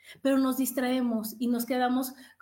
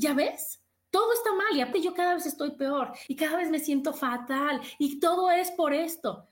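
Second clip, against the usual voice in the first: whiny complaint; 5 semitones higher than usual. Retold or imitated. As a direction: whine that everything is wrong. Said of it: "Y tú vas a decir". (queja lloriqueante y aguda)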